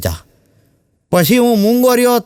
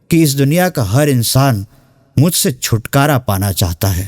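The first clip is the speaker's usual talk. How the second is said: poetic recitation. Acted. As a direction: recite it like a sad shayari. Poetic recitation of Pain to Wealth.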